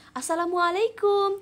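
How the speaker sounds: voicing Jamila for the class; Jamila's greeting. Shown as a demonstration. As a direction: greet like a girl meeting a friend. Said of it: "Nah, Jamila".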